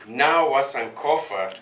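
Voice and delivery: Nawa Sankofa said slowly with stress on Nawa; slow teaching call. Shown as a demonstration. Elder leading the crowd in a chant, slow call. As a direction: lead it out slowly. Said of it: "call and repeat".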